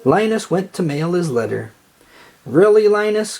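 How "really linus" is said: higher, louder scornful cry; big sister scoffing at her little brother; exasperated cry. A narrator's reading. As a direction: scoff at him loudly and high. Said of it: "cried Lucy".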